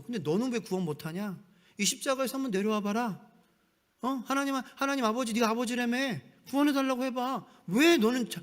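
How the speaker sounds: jeering mockery. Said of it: "사람들은 조롱했어요".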